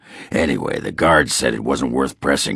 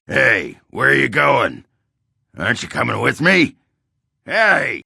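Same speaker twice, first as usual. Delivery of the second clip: calling out; 13 semitones higher than usual. Acted. Calling after the departing Warden.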